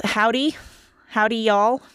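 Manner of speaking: badly faked Southern accent. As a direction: try an unconvincing Texan Southern twang. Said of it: "that's not a Southern accent".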